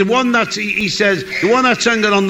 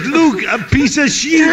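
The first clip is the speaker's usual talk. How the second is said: put-on raised, laughing punchline in a joke accent; delivering the rude punchline in a mock accent; mock Mexican accent; 4 semitones higher than usual. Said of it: "It's how they pronounce things".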